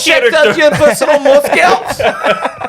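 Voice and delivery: high, slow, hammed-up shout; silly high announcer voice. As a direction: bellow it like a game-show host. Mock announcer bit.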